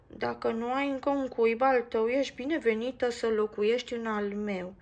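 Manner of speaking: shyly offered, fading to a whisper; a bit embarrassed. Acted. Max shyly invites Mia into his nest, a bit embarrassed. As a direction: offer it awkwardly. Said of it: "puțin stânjenit".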